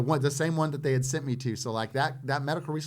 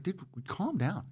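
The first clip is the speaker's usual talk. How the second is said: with attitude; 7 semitones higher, 4 dB quieter, slower than usual. Retold or imitated. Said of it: "kinda gets an attitude with me".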